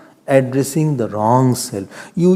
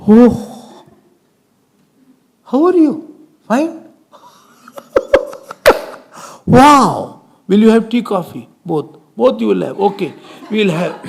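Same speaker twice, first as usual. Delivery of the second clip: much higher, laughing, delighted welcome to a guest; warm host welcome; 5 semitones higher, 3 dB louder than usual. Retold or imitated. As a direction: fuss over the visitor with cheerful laughter. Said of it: "you know, entertaining".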